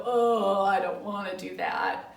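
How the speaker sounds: groaned, drawn-out "oh" of protest; mock reluctant grumble; grumpy. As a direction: act out a sulky kid refusing a chore. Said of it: "like, all grumpy".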